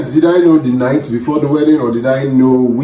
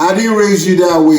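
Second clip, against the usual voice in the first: a hint of a stern mother; scolding mother voice; disappointed mother; 5 semitones higher than usual. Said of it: "the black mother in the crowd saying".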